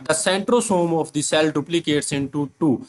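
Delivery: reads the English line very slowly, word by word; slow dictation reading; slow textbook reading. Shown as a demonstration.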